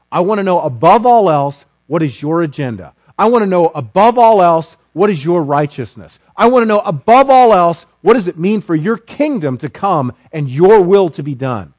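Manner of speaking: rising, insistent declaration; building preaching. Acted. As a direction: preach it with growing force. Building sermon climax.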